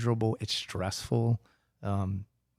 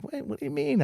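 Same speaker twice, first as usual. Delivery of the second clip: disbelieving surprise. Retold or imitated. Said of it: "and it's like".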